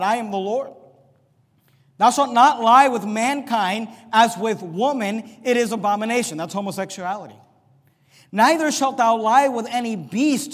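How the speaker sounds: slow, weighty Bible reading; solemn scripture reading. Real, not acted. Pastor reading Leviticus to his congregation, solemn scripture reading. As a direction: read each commandment like a verdict.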